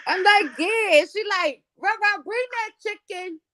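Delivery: high, pushy neighbor voice; high mock of a bossy neighbor; imitating neighbor. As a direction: mimic the eager neighbor, pitched well up. Neighbor demanding chicken, quoted.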